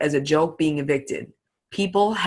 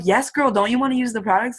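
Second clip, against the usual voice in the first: bubbly, pitched-up pitch to a prospect; girl-to-girl excited coaxing; excited sales pitch; 6 semitones higher than usual. Retold or imitated. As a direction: hype the products up like a best friend. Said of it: "I'm like".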